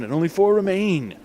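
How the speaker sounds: ordinary delivery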